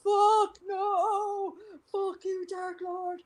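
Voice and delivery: high, drawn-out cursing cry; mock anguished wail. She curses her period cramps, mock anguish. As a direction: wail theatrically at the pain. Acting out reaction to terrible cramps.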